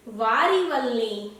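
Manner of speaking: slow, fond "वारी वल्ली" with "वारी" stressed. Shown as a demonstration. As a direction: draw out "वारी वल्ली" gently. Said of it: "तो वो क्या कहती है?". ("वारी वल्ली" धीरे और ज़ोर देकर)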